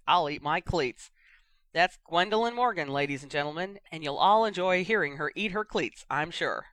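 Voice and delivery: lively match commentator voice; sports commentator. Acted. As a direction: hype the match like radio. Radio commentator continues.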